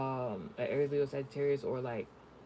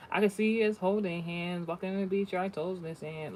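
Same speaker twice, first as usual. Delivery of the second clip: lifted, dreamy sing-song daydream; dreamy fantasy voice; 5 semitones higher, 3 dB louder than usual. Retold or imitated. Voicing a lovestruck person's beach fantasy, dreamy.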